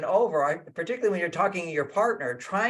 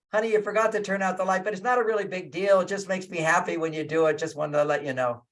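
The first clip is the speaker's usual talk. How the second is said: gentle wife. Retold or imitated. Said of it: "Imagine your wife says".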